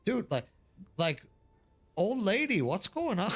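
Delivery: lightly voiced casual bro; casual slang translation. Shown as a demonstration. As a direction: toss it off like talking to a buddy. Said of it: "but it's more like".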